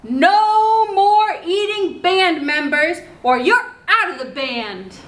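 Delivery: lightly voiced angry Poco; stern Poco. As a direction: scold the wolf like a cross little girl. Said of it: "she's pretty angry".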